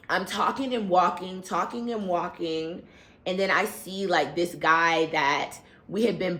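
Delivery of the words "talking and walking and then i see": normal talking voice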